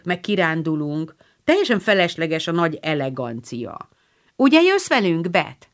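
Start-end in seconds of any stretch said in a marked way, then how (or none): 4.4-5.7 higher, louder hopeful ask; eager coaxing. Acted. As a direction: coax shy sister along. Joe coaxing Beth. (lelkes unszolás)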